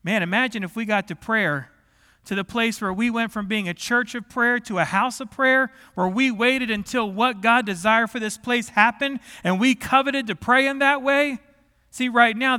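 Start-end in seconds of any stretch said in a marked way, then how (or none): 2.2-12.6 raised, driving sermon delivery; impassioned preaching. Acted. Preacher urging his church toward prayer, impassioned. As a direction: build the vision with rising force.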